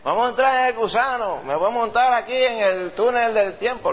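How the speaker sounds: high, eager, laughing "vamos a montar"; old folks squealing like children at the fair; excited like a kid. Retold or imitated. Preacher imitates grown-ups begging for rides, high and giddy. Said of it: "los que tienen cien años y se creen niños".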